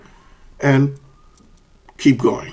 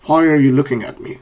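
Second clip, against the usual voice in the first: WH-question with a final drop on "me"; falling question intonation. Shown as a demonstration. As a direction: let "looking at me" fall to the end. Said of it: "intonation, which is falling".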